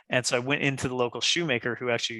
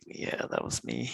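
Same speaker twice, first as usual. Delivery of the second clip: slow, soft, nearly voiceless confession; sheepish whisper; 8 dB quieter, slower than usual. Retold or imitated. Admitting to the customer he sold the shoes, sheepish whisper. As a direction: own up quietly, hoping nobody hears.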